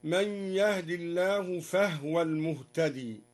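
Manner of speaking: "فهو" recited as "fahwa", no vowel on ha; silent-vowel ha. Shown as a demonstration. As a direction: close the ha in "فهو" straight onto the waw. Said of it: "وسكن الهاء من قوله تعالى". («فهو» بتسكين الهاء)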